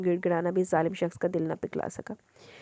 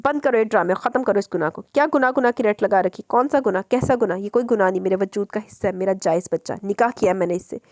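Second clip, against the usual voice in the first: angry shouting; 4 dB louder than usual. Acted. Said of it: "गुस्से से चिल्लाई".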